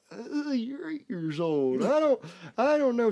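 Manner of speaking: high, slow, squirming hesitation; reluctant hesitation. Retold or imitated. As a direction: squirm reluctantly, dragging the words out. Reluctant dad answers daughter.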